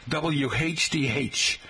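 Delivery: W H D H spelled out slowly, letter by letter; slow W H D H, each letter apart; imitating dad. Host imitates his dad naming the station, slow letters. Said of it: "he would say".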